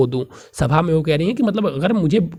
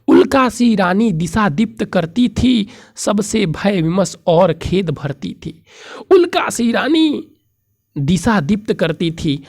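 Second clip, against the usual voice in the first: raised, declamatory poem reading; verse recitation; 4 semitones higher than usual. Acted. Teacher reciting verse about the queen to students, declamatory. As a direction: recite the verse at a higher pitch.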